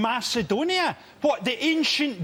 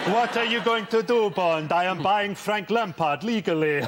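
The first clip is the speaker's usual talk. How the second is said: hammed-up Bond villain, dropping lower; crazy billionaire villain; 4 semitones lower than usual. Billionaire villain gloating to James Bond, hammed-up menace. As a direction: play a scheming supervillain taunting his captive. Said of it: "crazy billionaire build a secret base".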